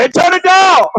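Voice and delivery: high squeaky voice calling "turn it down"; neighbour complaining. Retold or imitated. Preacher imitates neighbours complaining about noise, high squeak. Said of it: "They'll come over and say".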